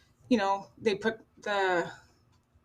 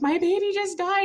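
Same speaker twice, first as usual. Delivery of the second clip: retold anguish; 10 semitones higher than usual. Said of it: "I'm like".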